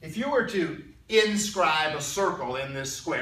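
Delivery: "inscribe" picked out with firm emphasis; stress on inscribe. Real, not acted. Teacher introducing a new word to students, stress on "inscribe". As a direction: lean hard on the word "inscribe". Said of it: "trying to emphasize the word inscribe".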